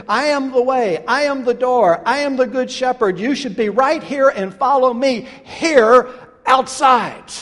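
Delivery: high, loud preacher's climax; forceful proclamation. Acted. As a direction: declare each "I am" with full authority. Preacher as Jesus, climax of summons.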